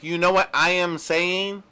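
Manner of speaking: stiff, every word separate; robotic imitation. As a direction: spell out each word like a robot. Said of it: "but he's like".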